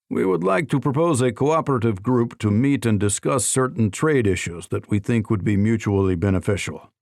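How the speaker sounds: put-on a light Russian accent; heavy Russian accent. Russian minister proposes a trade group, lightly Russian accent. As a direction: lean gently into a Russian accent. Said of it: "in his heavy Russian accent".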